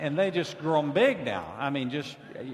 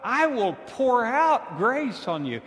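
high, loud, slow proclamation of grace; a preacher voicing God at full force; booming preaching; 8 semitones higher, 7 dB louder than usual. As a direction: thunder it out to the congregation.

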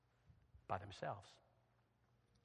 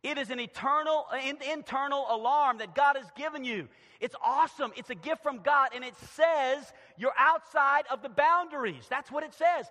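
raised, forceful pulpit voice; emphatic preaching; 8 semitones higher, 8 dB louder than usual. Acted. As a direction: drive the point home to listeners. Preaches about conscience.

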